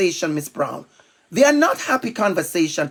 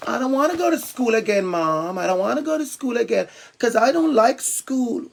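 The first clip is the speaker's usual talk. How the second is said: lightly voiced reluctant schoolchild; imitating unhappy child; 4 dB quieter than usual. Bullied child telling Mom about school, mildly plaintive imitation. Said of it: "they go home and they said".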